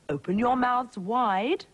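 storybook princess. A narrator's reading. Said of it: "said the Princess".

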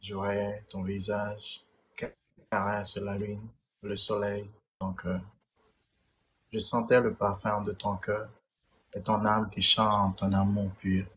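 measured, unhurried poetry reading; poem recital. Acted. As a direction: recite a love poem in short, paused phrases. Récite son poème. (récitation de poème, posée)

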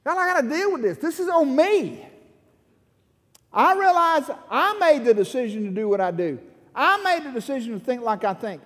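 pleading confession cried out to the Lord; crying out to God. Retold or imitated. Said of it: "you just gotta cry out".

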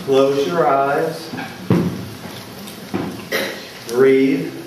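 measured meditation leader with long pauses; unhurried, spacious guided-meditation delivery. Real, not acted. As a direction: guide listeners gently inward, pausing between phrases.

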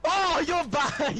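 high, loud, drawn-out jeer; gleeful slow taunt; taunting shout. Real, not acted. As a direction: crow at an opponent's miss. Taunts opponent who missed.

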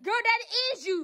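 high, loud insistence; heated contradiction; angry accusation. Real, not acted. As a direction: insist loudly that she did it. Quarrel with sister.

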